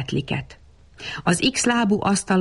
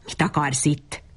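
snarled; 4 semitones lower than usual. A narrator's reading. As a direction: snarl it at the intruder, gently growled. (halk, mély vicsorgás)

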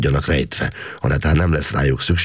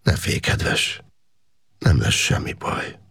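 tender reassuring; slower than usual. A narrator's reading. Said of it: "a régi, kedves, becéző hang volt".

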